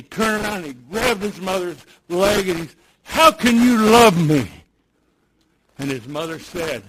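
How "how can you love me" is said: put-on pleading child. Boy pleading to his mother.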